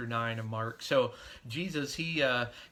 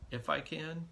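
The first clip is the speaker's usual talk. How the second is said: a mildly incredulous echo of the words; 3 semitones higher than usual. Retold or imitated. Jesus echoing the doubting father's words, mildly incredulous. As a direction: question the doubt lightly, as if amazed. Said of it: "Do you know who you're talking to?".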